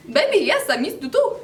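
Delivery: high, bouncy sing-song caller voice; mock a lovey stranger on the phone; imitated caller. Girl imitating the caller's answer, put-on voice. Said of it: "And he's like".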